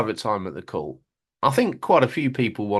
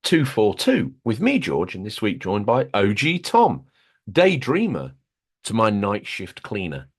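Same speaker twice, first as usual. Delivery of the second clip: big, bright-pitched show opener with punched names; podcast host intro; 4 semitones higher, 3 dB louder than usual. Acted. Host welcomes listeners to the gaming podcast, announcer style. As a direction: announce the show and guest with swooping emphasis.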